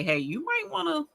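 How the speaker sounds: high, soft tactful nudge; gentle heads-up. Acted. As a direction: lightly act out a friend's careful hint. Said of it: "somebody to consider me, um, enough to say".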